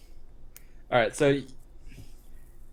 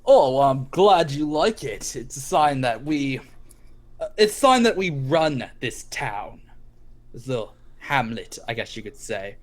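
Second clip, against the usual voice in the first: gang leader. Acted. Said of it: "It's like".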